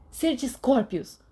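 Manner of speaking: loud, drawn-out spell cry; shouted spell. Acted. Sirius shouting a curse at the boys, drawn-out yell. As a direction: fling the curse out loud and slow. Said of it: "Sirius gritou".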